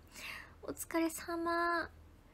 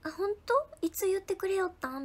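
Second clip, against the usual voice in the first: surprised; 6 semitones higher, 4 dB louder than usual. Real, not acted. Surprised by a viewer's comment.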